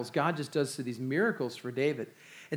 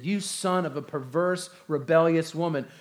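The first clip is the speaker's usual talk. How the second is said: angry king; 3 semitones higher, 4 dB louder than usual. Acted. Saul curses his son Jonathan, angry and loud. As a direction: berate his son in royal fury. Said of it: "Saul's anger was kindled against Jonathan".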